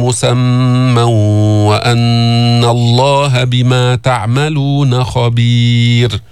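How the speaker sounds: slow, drawn-out tajweed chant; Quran recitation. Shown as a demonstration. Teacher reciting to students in slow chant. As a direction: recite each word long and measured.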